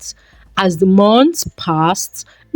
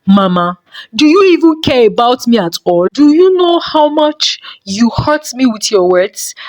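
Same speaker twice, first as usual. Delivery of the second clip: fast, higher, pained plea to mother; hurt pleading; 4 semitones higher than usual. Acted. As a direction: let the hurt burst out. Son confronts mother about hurt.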